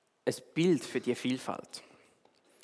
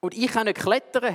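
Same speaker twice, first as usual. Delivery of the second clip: higher, louder bird cry; screeching bird; 7 semitones higher, 5 dB louder than usual. Acted. Little bird complains to the owl, a higher louder screech. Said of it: "hat ein Vogel plötzlich gekreischt".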